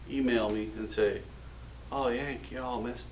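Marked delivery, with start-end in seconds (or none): 1.9-3.1 half-hearted British accent attempt; failed British accent. Brit emailing the host, badly attempted British accent. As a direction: try a British accent, softly, and give up. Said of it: "I can't do a British accent".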